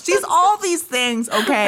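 put-on light New England accent; a touch of New England vowels. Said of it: "Are you doing your New England accent?".

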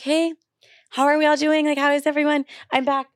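high, chirpy mock greeting, acting totally fine; fake breezy cheer. To gossiping classmates, a high chirpy mock-casual hello. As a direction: sing it out like nothing ever happened. Faking cheer to whispering school.

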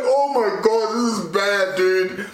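high, alarmed "oh my God"; shocked panic. Retold or imitated. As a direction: gasp it out in shock. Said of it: "I'm like".

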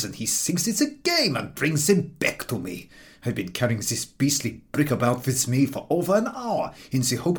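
a touch of weary grievance; fed-up man telling of the dog; lightly voiced exasperated stranger. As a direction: complain about the dog, tired and put-upon.

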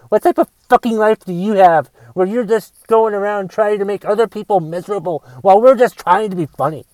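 angry rant. Acted. Comic ranting at a social justice warrior, angry. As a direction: rant it like you're sick of being corrected.

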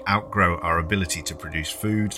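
reading a prepared documentary script; steady, clear storytelling read; scripted podcast narration. Acted. Reads her prepared minisode script.

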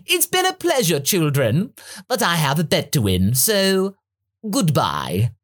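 high, smug tyrant farewell; mocking Frieza voice. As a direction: dismiss the children with glee.

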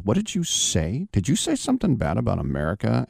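mock tough-guy demand without shouting; retold confrontation. Chicago guy challenging all twelve kids, retold confrontational questioning.

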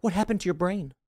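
incredulous. Retold or imitated. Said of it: "And I'm just like".

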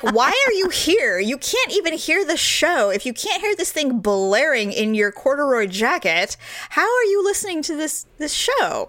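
put-on high, incredulous rant at the old man; asking a stranger why he even came, exasperated; exasperated disbelief. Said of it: "And I'm like".

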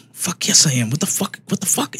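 hushed, incredulous rant under the breath, pitch climbing; seething in his head, voice held down; retold inner anger. Dad replaying his silent reaction to his daughter, incredulous and mad. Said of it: "in my head, I'm so mad".

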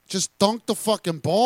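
like a fed-up teammate yelling; exasperated shout. Retold or imitated. Voicing Embiid, exasperated.

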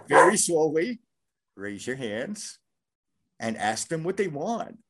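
slow, voiced stand-in for a whisper; retold hushed instruction. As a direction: spell out each step with careful pauses. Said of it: "I'm whispering this to her".

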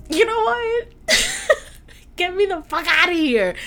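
high laughing plea to get out; giggling fake panic; laughing mock exit. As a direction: pitch it up and crack into a laugh. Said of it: "And I would've been like".

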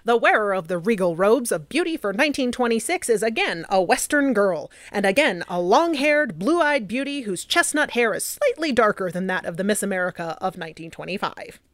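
lightly voiced 1920s newsreel announcer; a hint of an old radio newsreader; old-timey voice. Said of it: "I'm gonna use my old, old-timey voice".

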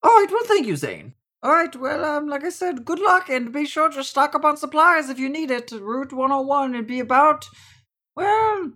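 high, loud professor voice; Professor, cheerful send-off. Acted. Professor wishing players luck on their journey, high character voice.

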